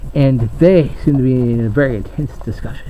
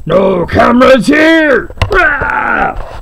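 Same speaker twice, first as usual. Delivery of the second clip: higher, louder, slow bellowed warning; angry guard shout; 12 semitones higher, 6 dB louder, much slower than usual. Acted. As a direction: roar at the crew to get out. Guard throws the camera crew out.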